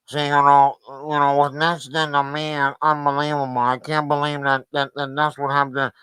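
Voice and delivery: low, nasal mock of the guest; mocking the guest's bad mic sound; nasal Squidward mock. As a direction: pinch it through the nose like Squidward. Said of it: "And he talking through his nose".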